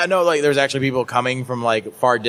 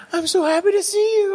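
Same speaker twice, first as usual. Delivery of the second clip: much higher, sweet gushing fan voice; faster than usual. Retold or imitated. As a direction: squeal it like an overjoyed young fan. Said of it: "she's like".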